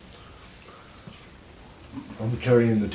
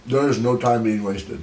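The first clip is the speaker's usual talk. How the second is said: slow, talking while chewing; mouth full; slower than usual. Real, not acted. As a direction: speak through food. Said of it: "I'm dipping while I'm chewing".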